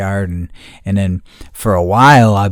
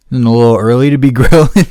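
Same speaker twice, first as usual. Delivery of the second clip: laughing quote; 3 semitones higher, 8 dB louder, faster than usual. Retold or imitated. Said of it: "He's like".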